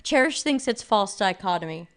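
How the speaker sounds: words around a sip of hot tea; sipping hot tea. Real, not acted. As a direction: talk between slurps of tea. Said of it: "Sorry, I'm slurping my hot tea".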